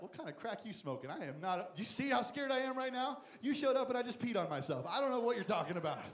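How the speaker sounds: hammed-up scared protest; mock panicked Gideon. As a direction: play the terrified man in a panic. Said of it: "Gideon's like".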